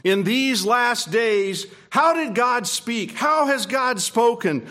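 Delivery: fervent pulpit delivery; preaching. Acted. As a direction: proclaim it to the congregation. Preaching to the congregation.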